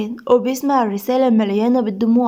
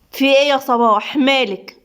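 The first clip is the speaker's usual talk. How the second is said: mildly sharp questioning. Acted. Doctor questioning her flustered nurse, mildly sharp. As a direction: demand an answer with a touch of edge. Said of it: "نادين بحدة".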